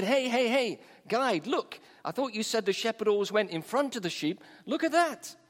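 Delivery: retold tourists piping up in puzzled protest; calling out. Puzzled tourists hail their guide about the sheep, calling out.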